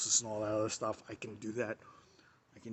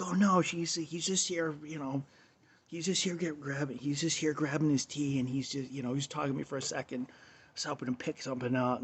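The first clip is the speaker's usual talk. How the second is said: raised higher voice for April; April covering for her friend to the boss, in a higher voice; imitating April; 4 semitones higher than usual. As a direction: play the coworker smoothing things over, pitched up. Imitating April defending him.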